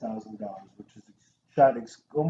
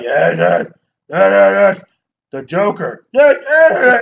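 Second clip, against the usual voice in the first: mock Batman growl; 5 semitones higher, 12 dB louder than usual. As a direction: bark the yeahs like a parody Batman. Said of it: "That's like an action movie choice".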